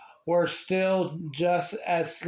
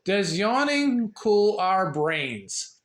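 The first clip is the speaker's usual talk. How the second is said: careful reading; 3 semitones higher, slower than usual. Real, not acted. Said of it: "see if I can read this right".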